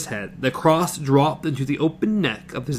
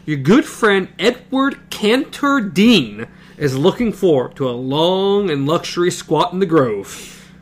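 higher, slow pompous boast; mock grand; 4 semitones higher, slower than usual. Eddie boasts about himself to Jake. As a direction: puff up like a lord announcing himself.

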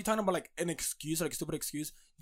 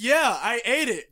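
slow, louder raspy voice; higher, drawn-out rasp; 4 semitones higher, 6 dB louder, much slower than usual. Retold or imitated. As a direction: imitate a raspy friend, dragging it out. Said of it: "it's, like, very raspy".

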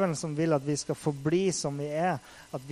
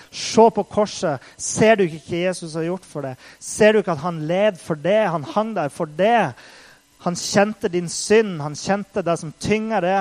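God's voice; 3 semitones higher, 7 dB louder than usual. Retold or imitated. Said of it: "sa Gud".

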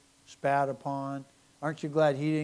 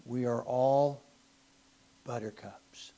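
mocking whisper; 3 semitones lower than usual. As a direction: breathe it out as a sarcastic aside. Mocking modern culture.

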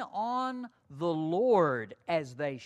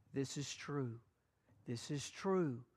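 a hushed, softer assurance; God's voice, quiet; 5 semitones lower, 9 dB quieter than usual. Acted. God assuring the listeners' spirits, hushed and softer. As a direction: voice God calmly confirming. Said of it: "God is saying to them".

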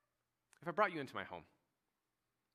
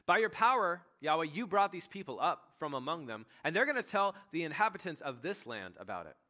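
urgent pleading Moses; 3 semitones higher, 6 dB louder than usual. Acted.

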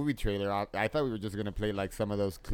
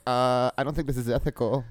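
nerd voice; 4 semitones higher, 3 dB louder than usual. Pretend. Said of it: "I could have done nerd voice".

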